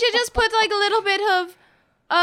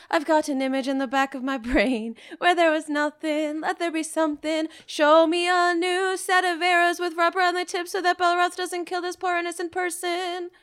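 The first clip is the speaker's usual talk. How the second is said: even, chant-like incantation; spell incantation. Acted. Player casting a spell for rubber-tipped arrows, monotone incantation. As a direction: intone it on one held note.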